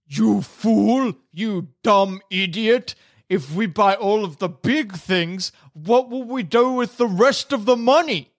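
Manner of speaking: lightly voiced scolding giant head; a hint of an angry brute; two bickering giant voices. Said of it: "And the other head says".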